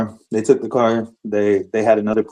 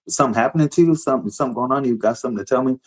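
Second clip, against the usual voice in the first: put-on higher-pitched questions to his child; retold dad checking on his daughter; concerned father; 4 semitones higher, faster than usual. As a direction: ask it lightly, as a father to a child. Father gently questions hiding daughter.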